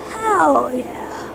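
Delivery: whispered cheer. Real, not acted. Quiet celebration after clog.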